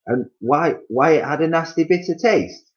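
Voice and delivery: high, teasing wife; gloating Missus Twit. Acted. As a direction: draw out the gloat. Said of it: "he said".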